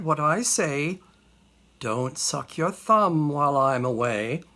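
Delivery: lively, measured verse recitation; theatrical storytelling in rhyme; dramatic poem recital. Acted. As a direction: recite a cautionary tale with relish.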